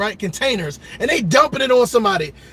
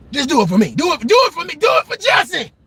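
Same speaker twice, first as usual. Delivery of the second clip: mock pleading; 4 semitones higher than usual.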